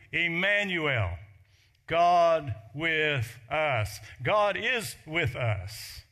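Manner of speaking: loud, slow proclamation of Emmanuel; proclaiming. Real, not acted. Preacher declaring the letter's secret meaning to the congregation, loud and slow. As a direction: ring out God with us, slowly.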